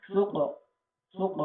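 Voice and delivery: চোখ with an upward echo on the final qaf; upward qalqalah bounce. Shown as a demonstration. Teacher demonstrating the qaf to learners, upward qalqalah bounce. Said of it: "এটার উচ্চারণের গতি হবে ঊর্ধ্বমুখী".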